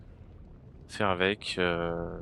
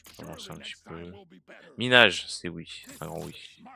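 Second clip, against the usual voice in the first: through a tube; 3 semitones lower than usual. Real, not acted. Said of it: "ma voix va être un peu comme dans un tube".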